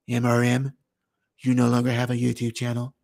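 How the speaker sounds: mock YouTube boss. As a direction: deliver the firing like a cold boss. Voicing YouTube firing him.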